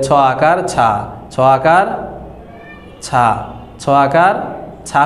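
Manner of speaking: ছা as a thin chha with open aa; wrong Bangla reading. Shown as a demonstration. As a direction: say ছ and ছা in place of thick Arabic সদ. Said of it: "সঠিকভাবে উচ্চারণ করতে পারবো না".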